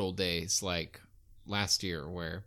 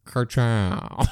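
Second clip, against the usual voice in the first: Lightning McQueen; 7 dB louder than usual. Acted. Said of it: "Is that a Lightning McQueen impression?".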